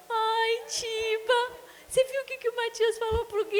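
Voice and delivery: high, eager call to her husband, a little sung; calling out, thrilled by the news; mother rushing to tell the dad, excited and high. Retold or imitated.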